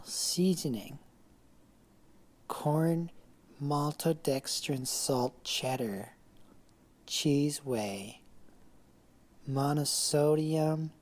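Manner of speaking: mock-serious poetry reading; poem recital. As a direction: recite each ingredient like a line of verse. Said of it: "part one of my untitled poem".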